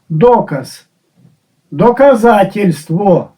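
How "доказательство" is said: Доказательство said slowly with Russian sounds; Russian word. Shown as a demonstration. Teacher showing the longer Russian form of доказ. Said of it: "ускладнили і змінили".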